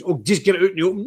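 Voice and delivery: quick, offhand mimicking of advice; mimicked advice. Mimicking men who want to open up, dismissive. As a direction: toss it off as someone else's line.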